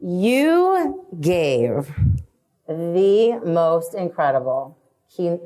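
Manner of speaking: slow, halting, holding back tears; choked up. Real, not acted. Host praising guest's keynote talk, choked up. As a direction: drag the words out through rising emotion. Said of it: "See, I'm getting all, like".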